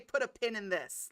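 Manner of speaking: slow quoting. Retold or imitated. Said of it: "she's allowed to say".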